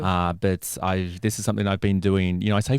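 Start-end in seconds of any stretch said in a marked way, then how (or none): none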